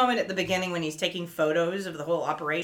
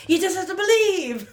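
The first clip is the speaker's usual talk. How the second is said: imitating eager pep; 10 semitones higher than usual. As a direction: chirp it like a hopeful cheerleader. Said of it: "And Laura's like".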